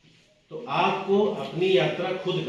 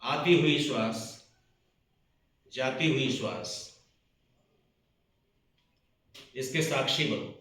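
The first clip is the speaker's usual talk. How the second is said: lightly meditative, with long pauses between instructions; guided meditation. Acted. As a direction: guide listeners into watching the breath, unhurried. Leads a breathing meditation. (ध्यान कराते हुए, ठहर-ठहर कर)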